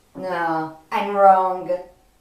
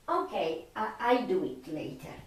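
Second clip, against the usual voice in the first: much softer, offhand; muttered aside; 3 semitones lower, 11 dB quieter, much faster than usual. Real, not acted. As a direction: drop the volume as if talking to yourself. Aside after a notification interrupts.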